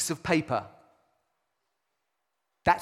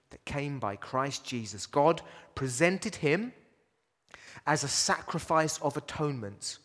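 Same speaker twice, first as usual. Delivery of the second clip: quiet scripture reading; 5 semitones lower, 5 dB quieter than usual. Acted. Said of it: "Paul puts it like this".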